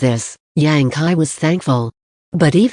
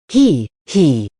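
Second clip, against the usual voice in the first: sneering chuckle. A narrator's reading. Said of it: "Yang Kai sneered".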